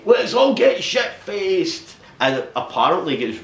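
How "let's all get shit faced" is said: high, slow rowdy cheer; party-mad boss. Retold or imitated. Boss after closing on Christmas Eve, high rowdy cheer. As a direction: drawl it like a boss ready to party. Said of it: "Ira's like".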